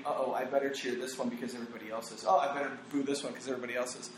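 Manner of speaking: fast, low, quiet mock thinking; hurried crowd thoughts. Voicing sheep-like fans deciding whom to cheer, hurried and low. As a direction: rattle off the follower's thoughts under your voice.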